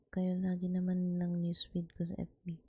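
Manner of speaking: ASMR whisper. Acted.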